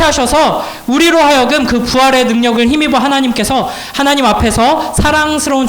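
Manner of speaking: high-pitched, fervent sermon delivery; emphatic preacher in full flow; impassioned preaching. Real, not acted. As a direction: proclaim it to the congregation, pitched high.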